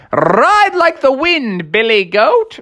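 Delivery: rallying cry. Acted. Froggy rides Billy Goat, slow excited cry. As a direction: urge the goat on like a cowboy.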